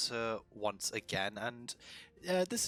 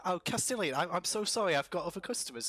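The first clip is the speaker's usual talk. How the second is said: lightly voiced shopkeeper, nervous and higher; flustered shopkeeper; 5 semitones higher than usual. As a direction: politely shoo him out. Beatrice shooing Castilian away.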